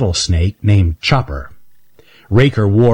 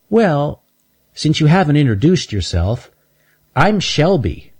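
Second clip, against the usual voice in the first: put-on high, sweet little girl squirrel; little girl squirrel calling from behind a bench; 7 semitones higher than usual. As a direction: ask it like a curious little girl. Shelby introduces herself.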